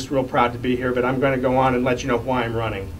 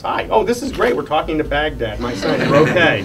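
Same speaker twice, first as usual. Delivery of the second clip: delighted greeting; 3 semitones higher than usual. Retold or imitated. Father retelling calls from his son in Baghdad, delighted. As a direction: re-enact a happy phone greeting.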